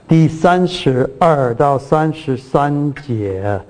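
第三十二到三十三节 said slowly and spelled out; slow, deliberate citation. Shown as a demonstration. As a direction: read the verse number slowly for clarity. (慢慢念出章节)

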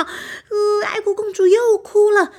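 loud, high alarm to the other animals; panicked shouting. Acted. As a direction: yell a warning, run for it. Animals flee the crying princess. (小动物们惊慌大喊：快跑)

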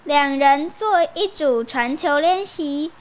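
a hint of a cheerful teacher. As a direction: announce it like a teacher to kids. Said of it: "老师说". (老师对学生宣布，轻快地说)

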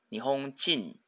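Japanese 日本人 as nihon-JI-n, accented on the ji. Shown as a demonstration. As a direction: stress the ji when reading 日本人 as Nihonjin. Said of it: "它的重音呢是在基上面".

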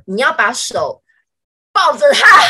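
hammed-up teasing holler; classmates' shout. Classmates yelling at her to hug the boy, mock shout. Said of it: "他说：".

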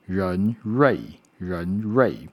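人瑞 repeated with a clear curled-tongue r; 人瑞 with both initial r sounds carefully made. Shown as a demonstration. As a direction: model 人瑞 for learners, each r distinct. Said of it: "都有日的声音".

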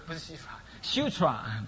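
sira corrected slowly to sutra; 纠正读音. Shown as a demonstration. (慢慢纠正成sutra)

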